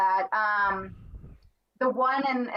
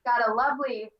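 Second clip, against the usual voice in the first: lightly imitated creepy leer; mildly creepy villain quote; creepy Ghostface line.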